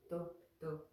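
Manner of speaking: "tu" repeated as a short syllable; pronunciation drill. Shown as a demonstration. Teacher reminding students of santu, short "tu". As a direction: tap out "tu" separately. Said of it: "So remember the santu".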